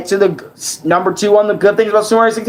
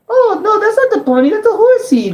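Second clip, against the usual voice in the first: much higher cartoon Mario; squeaky Mario voice; 11 semitones higher than usual. Mario correcting Luigi about the horsey in a much higher voice.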